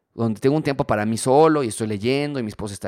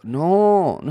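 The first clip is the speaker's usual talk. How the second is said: sharp, higher and louder no; emphatic no; 7 semitones higher, 6 dB louder than usual. Real, not acted. Preacher rejecting a wrong idea, loud and firm. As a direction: cut them off firmly.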